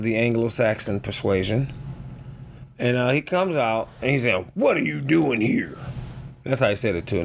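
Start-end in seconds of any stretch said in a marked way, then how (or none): 4.5-5.8 mock-indignant challenge; lightly voiced confrontational man; angry homeowner voice. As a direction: imitate an irate homeowner, slightly raised. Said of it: "no lie, that was his voice".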